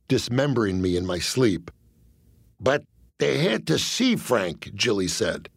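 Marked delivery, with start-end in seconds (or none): 2.6-4.7 mob enforcer voice. Acted. Jilly, slow and puzzled.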